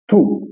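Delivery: tu with the rounded French u; tu said with lips rounded. Shown as a demonstration. Teacher contrasts tu with tout. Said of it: "Eu vou falar".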